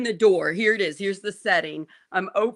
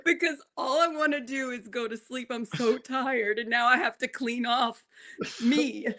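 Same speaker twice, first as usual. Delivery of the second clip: words broken up by real laughter; laughing while talking; 4 semitones higher than usual. Real, not acted. Telling her friend about throwing up, laughing. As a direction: giggle through it, laughing at yourself.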